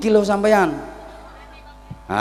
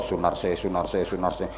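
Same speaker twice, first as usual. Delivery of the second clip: low mumbled chanting of names; mock wirid murmur; 4 semitones lower, 4 dB quieter than usual. Old man murmuring widows' names as dhikr, mock. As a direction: mutter widows' names like prayer beads.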